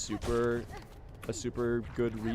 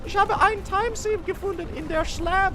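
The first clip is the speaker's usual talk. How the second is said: much higher, silly mock German exclamation; German joke voice. Streamer's German joke bit for chat, a high, squeaky mock German. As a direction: ham up a fake German gamer shocked by his find. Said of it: "where I go".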